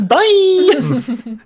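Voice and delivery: high, loud laughing bye; laughing shout. Acted.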